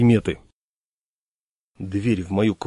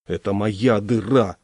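irritated; slower than usual. Acted. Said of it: "раздражённо сказал я".

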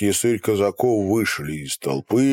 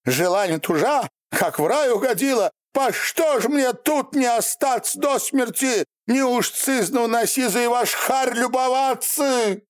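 squealing; 14 semitones higher than usual. A narrator's reading. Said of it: "взвизгнула".

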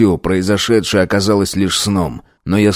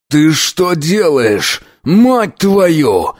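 furious yell, slow and higher; 7 semitones higher, much slower than usual. A narrator's reading. Jealous boyfriend yelling at his girlfriend, furious yell. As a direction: bellow it at her in jealous rage. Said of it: "ору я ей в лицо".

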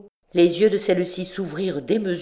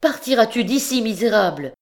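higher, louder angry yell; furious shout; 6 semitones higher, 4 dB louder than usual. Acted. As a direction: throw him out with a roar. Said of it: "hurla Marius".

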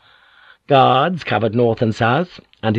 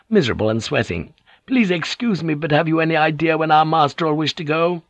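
put-on higher, careful old retainer voice; a worried old hunt master asking politely; voiced old retainer, uneasy; old samurai, anxious; 6 semitones higher than usual. A narrator's reading.

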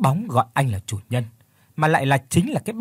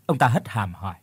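plain reading voice

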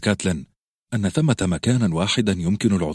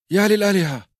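sudden high cry of alarm, much higher and louder; a boy yelling out in shock; Robb shouting; 13 semitones higher, 4 dB louder than usual. Acted. Robb cries out on hearing of the Lannisters, loud high shout. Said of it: "صاح روب".

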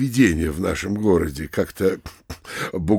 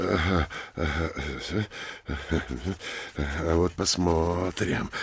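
quiet aside; 3 semitones lower, 6 dB quieter than usual. Acted. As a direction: muse quietly, half under the breath. Mayor's aside to himself. (тихо, в сторону, себе под нос)

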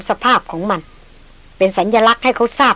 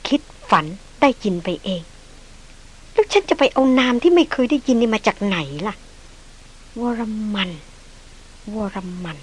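softer, fading to a faint whisper of the name; a puzzled woman muttering, softer and fading; bewildered murmur; 5 dB quieter, slower than usual. Acted. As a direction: muse aloud, half to herself. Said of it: "ดารินพึมพำกับตนเองอย่างสุดฉงน".

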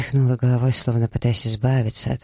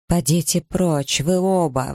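higher, slow, furious order to leave; exclaiming; 6 semitones higher, slower than usual. A narrator's reading. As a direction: drive them both out, pitch raised. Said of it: "воскликнула Элиза".

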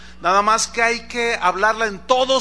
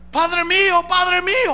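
high, raised call from a distance; shouting; 10 semitones higher, 4 dB louder than usual. Acted. David shouts down from the heights to Saúl, high calling voice. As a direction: call out to someone far below. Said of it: "y le grita".

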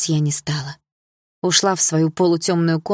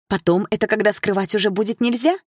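ironic; 4 semitones higher than usual. Acted. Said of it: "с иронией спросила я".

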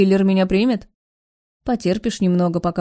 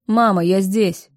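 moaning; slower than usual. Acted. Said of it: "стонет Алекс".

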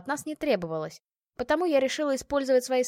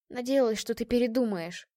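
sobbing. Acted. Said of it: "всхлипывая и совсем уже не сдерживая слёз".

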